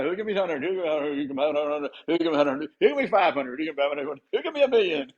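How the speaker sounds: lightly voiced auctioneer chant. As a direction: rattle off bids like an auctioneer. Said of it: "You're like an auctioneer now".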